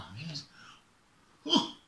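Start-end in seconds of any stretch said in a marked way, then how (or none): 1.5-1.7 high, loud fretting over the bird; worried bear. Acted. Bear watching his friend crash, loud and alarmed. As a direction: fuss anxiously, rising in alarm. Bear sees raven fall.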